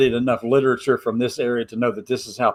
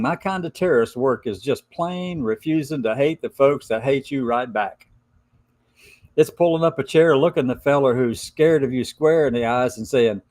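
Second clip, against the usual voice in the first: put-on hillbilly Appalachian accent. Reading Gemini's Appalachian letter aloud in a light Appalachian accent. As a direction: read it like a mountain gal with an Appalachian lilt. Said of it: "hard for me to talk like this".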